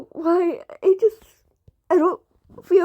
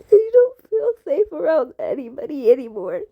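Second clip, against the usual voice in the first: crying. Real, not acted. Kid confessing fear to viewers, tearful. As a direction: say it while crying, holding it together.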